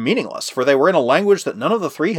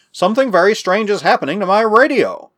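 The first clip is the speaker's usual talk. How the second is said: higher-pitched, mildly excited report; a touch of urgency in a raised pitch; 7 semitones higher, 3 dB louder than usual. A narrator's reading. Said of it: "replied the aged scientist excitedly".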